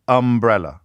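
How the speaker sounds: "umbrella" stressed on UM; first-syllable stress. Shown as a demonstration. Host reading out study examples, "umbrella" with stress on the first syllable. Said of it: "syllable stress in the first syllable".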